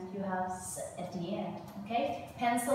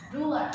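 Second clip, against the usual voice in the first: Ruler, higher and louder on the first syllable; stress on first syllable; 4 semitones higher, 5 dB louder than usual. Shown as a demonstration. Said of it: "you start at the first one".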